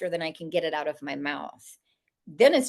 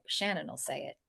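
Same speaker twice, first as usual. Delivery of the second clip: spirits' voices; 4 semitones lower, 9 dB quieter than usual. Retold or imitated.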